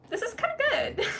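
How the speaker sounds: amused, half-laughing self-quote; giggly pleased aside. Retold or imitated. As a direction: laugh through the thought. Self-quote, pleased with own song.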